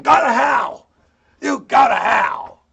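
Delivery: shouted, drawn-out imitation; mock the rude tone, shout it; mock European go to hell. Mocking a rude message, shouted go to hell. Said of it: "That sound like European".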